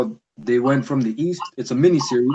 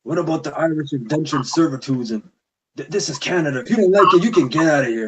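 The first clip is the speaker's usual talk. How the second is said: mocking the Irish guy. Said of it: "he's like".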